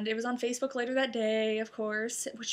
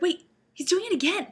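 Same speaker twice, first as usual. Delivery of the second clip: higher, baffled, ending in a loud What; puzzled double take; confused mom; 7 semitones higher, 7 dB louder than usual. Retold or imitated. Mom seeing the proposal reenacted, higher baffled confusion. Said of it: "She was really confused".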